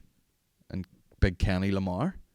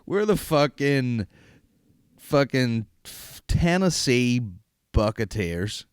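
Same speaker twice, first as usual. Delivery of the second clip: mock team announcement; 3 dB louder, slower than usual. Inventing fake team names.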